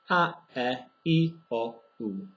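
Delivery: short, crisp Czech a, e, i, o, u; Czech short vowels. Shown as a demonstration. Teacher modelling short vowels for learners. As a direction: say each vowel short and clean. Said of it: "so you say".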